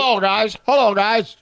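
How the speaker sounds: loud toy greeting; pull-string doll talking; action figure voice. Pretend. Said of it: "That's what you want yours to say?".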